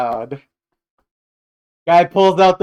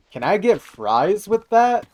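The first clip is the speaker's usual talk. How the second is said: mock American order; 5 semitones higher than usual. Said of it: "practice my white voice".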